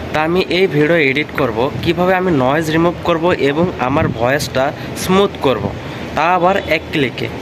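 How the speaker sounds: recorded on a windy rooftop; noisy outdoor recording. Real, not acted. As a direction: wind noise behind the voice. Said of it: "সেই ভিডিওতে background noise প্রচুর ছিল".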